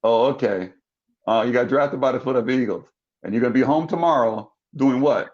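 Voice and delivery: retold skeptical mom voice; mildly dubious, humoring the caller; unimpressed mother. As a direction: lightly imitate a doubtful mother.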